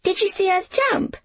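put-on high, excited girl's question; bursting with excitement, no real laugh; elated. A narrator's reading. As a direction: ask it high and thrilled, rising.

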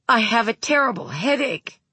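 put-on a whiny boy's complaint; child voice. A narrator's reading. Narrator voices Wayne.

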